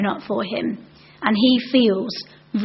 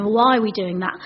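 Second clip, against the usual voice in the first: lightly imitated pestering pupil; mildly indignant child's questioning. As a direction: press with one demand after another. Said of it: "This child would always be asking".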